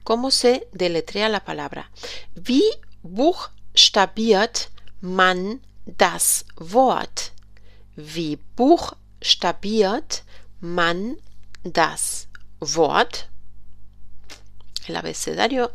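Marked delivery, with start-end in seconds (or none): 2.3-7.3 very slow, careful question; slow model question. Shown as a demonstration. German teacher models a question. 8.0-13.3 very slow repeat in two parts. Shown as a demonstration. German teacher repeats the question.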